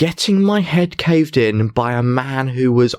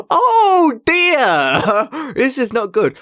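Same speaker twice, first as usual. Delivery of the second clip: high, laughing mock panic; mock dismay; 11 semitones higher, much slower than usual. Magician telling how he reacted to a threat, high laughing mock dismay. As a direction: squeal it like a flustered victim. Fretting about the man outside.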